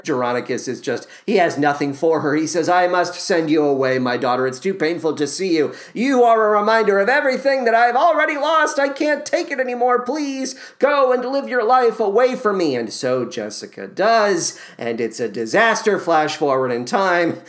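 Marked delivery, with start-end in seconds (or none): 2.7-12.7 lightly acted heartbreak, climbing in pitch; grieving father's plea. Voicing grieving father banishing daughter.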